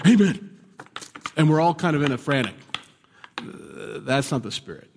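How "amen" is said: high, loud mock shout from the pews; congregant calling out. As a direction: imitate a fired-up audience response. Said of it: "someone in the audience goes".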